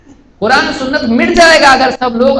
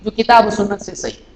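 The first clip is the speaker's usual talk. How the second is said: 1 slow firm statement. Retold or imitated. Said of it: "ہم بول رہے ہیں".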